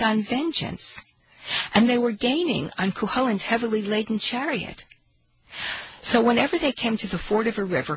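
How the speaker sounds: storyteller reading aloud; story narration. Acted. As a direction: tell it like an old tale.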